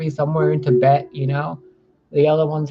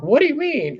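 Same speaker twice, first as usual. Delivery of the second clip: confused; 11 semitones higher than usual. Retold or imitated. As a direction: sound utterly puzzled. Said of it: "each and every one of them would be like".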